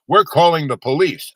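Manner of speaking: hammed-up angry manager; mock threat. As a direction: bark the threat like an indignant official. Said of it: "and he goes".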